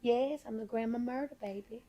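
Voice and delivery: lightly voiced doting grandma; a hint of Southern granny, trailing softly on "baby"; older Southern grandma. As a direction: play Grandma Myrtle lightly. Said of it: "like, this older grandma".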